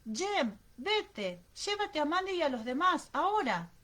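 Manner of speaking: urgent shouted order. A narrator's reading. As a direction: order the children away, now. Mother orders children away from danger. (orden urgente en voz alta)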